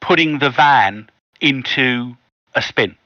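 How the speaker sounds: measured storytelling with pauses before key phrases; game master narration. Acted. Game master tells players how the van spins, measured suspenseful narration. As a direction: set the scene piece by piece.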